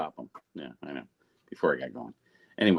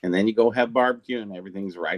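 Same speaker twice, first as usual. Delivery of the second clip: put-on light Southern accent; 3 semitones lower than usual. Collector joking about barbecue, lightly Southern US accent. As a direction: slip into a touch of Southern accent. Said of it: "he even went all Southern on us".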